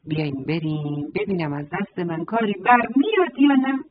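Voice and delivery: goat voice with a hint of bleat. Goat offering the hen and rooster help, bleating. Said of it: "بزی معمعی کرد و گفت".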